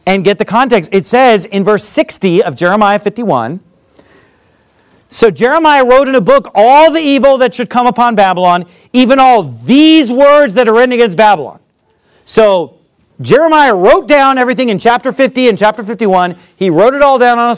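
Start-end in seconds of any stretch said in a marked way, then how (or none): 5.1-11.6 raised, emphatic scripture reading; higher-pitched pulpit reading of scripture. A narrator's reading. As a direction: read it out to the congregation with force.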